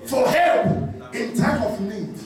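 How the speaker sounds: shouted preaching over music; fiery preacher sermon. Acted. Preaching at full force.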